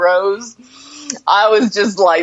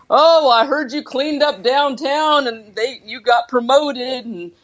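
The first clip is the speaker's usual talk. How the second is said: lightly voiced barber; 3 semitones higher than usual. Retelling the barber's chat with the cowboy, lightly voiced barber. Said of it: "saying stuff like".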